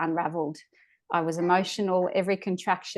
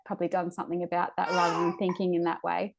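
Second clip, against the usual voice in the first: tearful; 4 dB quieter than usual. Real, not acted. Tearful while recalling the birth.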